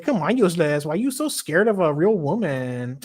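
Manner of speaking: lightly voiced teasing woman; torta woman impression. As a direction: goad a timid boyfriend as the torta character. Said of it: "my fucking torta impression".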